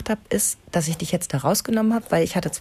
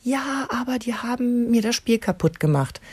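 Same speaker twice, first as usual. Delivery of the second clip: put-on whiny kid; 6 semitones higher, slower than usual. Kind klagt.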